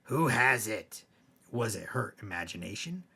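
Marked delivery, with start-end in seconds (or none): 0.0-1.0 ghost voice. Acted. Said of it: "it asked".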